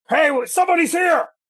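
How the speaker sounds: very high, shrill, loud yelling shout. Voicing a guard calling down into a hole: yelling guard character. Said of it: "He's gonna immediately yell".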